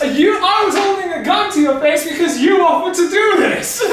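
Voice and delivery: laughing, high and loud; fighting back laughter; trying not to laugh. Real, not acted. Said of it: "I couldn't keep a straight face".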